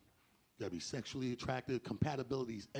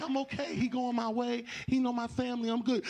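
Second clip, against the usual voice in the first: higher voice, brushing off worry; high breezy girlfriend; 8 semitones higher, 3 dB louder than usual. Acted. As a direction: wave off your friends in a high voice. Friend insists she'll stay.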